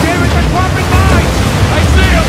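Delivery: shouting over the engines, loud; alarmed shout. Acted. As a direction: yell the warning at full volume. Mines dropped in boat chase.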